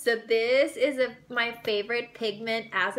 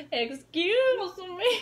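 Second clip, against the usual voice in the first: high, slow, drawn-out snooty "Excuse me"; mock snooty girl; 8 semitones higher, much slower than usual. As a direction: stretch it out like a stuck-up stranger. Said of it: "she's just gonna be like".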